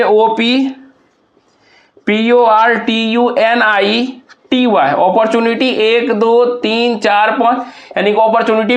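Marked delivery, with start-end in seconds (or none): 0.0-4.9 slow letter groups "ओ पी ... पी ओ आर टी यू एन आई ... टी वाई", paused between; syllable breakdown. Shown as a demonstration. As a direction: spell slowly in groups, with a long pause after "ओ पी". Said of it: "अपॉर्चुनिटी को हम लोग तोड़ेंगे".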